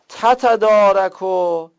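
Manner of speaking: slow تتدارک, both ت sounded; تتدارک with two t's. Shown as a demonstration. Teacher sounding both t's in تتدارک. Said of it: "در افعال مانند تتدارک".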